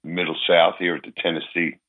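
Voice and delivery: hoarse, recovering from a cold; husky sick voice, still getting it back. Real, not acted. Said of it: "my voice is coming back a little bit".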